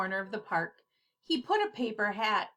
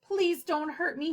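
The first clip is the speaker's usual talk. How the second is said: begging; 6 semitones higher than usual. Acted. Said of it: "he begged".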